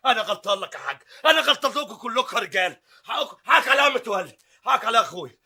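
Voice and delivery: laughing through a grudging apology; nervous chuckling apology; forced laughing apology. Acted. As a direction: laugh it off while saying sorry.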